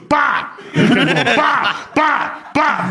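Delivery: loud, high hammed-up "Pa!" bursts; mock climax grunts. Retelling the old man acting out his climax at the bar. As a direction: yelp each pa like a comic climax. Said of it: "when he came, he goes".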